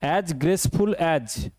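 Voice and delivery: very slow, careful reading; slow dictation. Shown as a demonstration. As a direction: drag out each word. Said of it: "teacher dictates the simile slowly".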